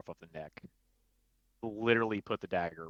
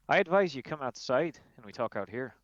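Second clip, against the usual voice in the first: higher, louder menace; 5 semitones higher, 4 dB louder than usual. Acted. Glamdry with dagger at throat, menacing threat. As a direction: threaten him coldly.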